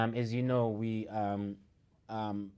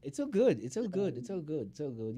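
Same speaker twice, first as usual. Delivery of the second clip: fading repetition; 4 semitones higher than usual. Real, not acted. Repeated, fading each time.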